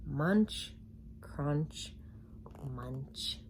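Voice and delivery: from plain to a whisper; fading munching. A narrator's reading. Narrator voicing the eating, fading to whisper. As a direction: let the munches die away.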